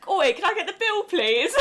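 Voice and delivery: loud, high mock cockney "Oi, can I get the bill". Brit in New York mocking herself asking for the bill, mock cockney. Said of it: "I'm literally like".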